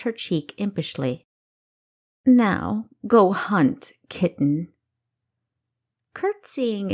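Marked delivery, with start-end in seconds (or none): 2.3-4.7 louder teasing send-off; mocking king. King dismissing his spy, a louder teasing order. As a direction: flick her away like a pet.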